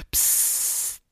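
long, soft voiceless "psss"; imitated hiss. Narrator leaving the club toilet, imitated hiss. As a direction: sustain a hissing sound effect. Imitated noise before door closes.

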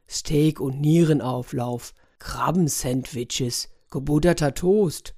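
slow, spelled-out list of absurdities; scornful listing. Acted. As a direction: dwell on each ridiculous item. Scornful list of ridiculous suggestions. (verächtlich, langsam aufgezählt)

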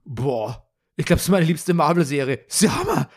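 high, excited rave about the show; son's excited gush. Retold or imitated. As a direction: gush like a thrilled kid. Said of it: "Und der so".

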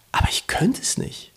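high, whispery quoted confession; retold reluctance. Friend admitting he couldn't move to the country, near-whisper.

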